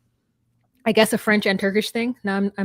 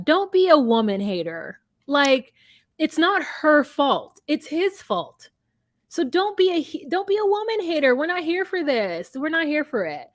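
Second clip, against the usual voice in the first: pleading scolding; 5 semitones higher than usual. Retold or imitated. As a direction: chide a friend with exaggerated patience, pitched up. Scolding Shekinah in retold advice.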